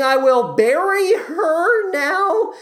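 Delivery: high, very slow hammed-up blubbering; mock sobbing. Marius burying Eponine, overdone sobbing. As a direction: sob the words out theatrically.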